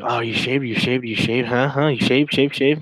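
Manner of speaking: lightly voiced leering guy, repeating it; a hint of a pushy creep pestering; mocking pushy guys. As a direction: tease it like an eager creep asking over and over. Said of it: "all these guys are just like".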